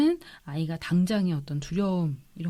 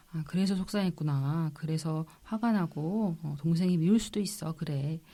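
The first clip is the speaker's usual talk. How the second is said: soothing empathy; 4 dB quieter than usual. Shown as a demonstration. Doctor modelling words for an upset child, soothing empathy. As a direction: gently acknowledge a child's upset.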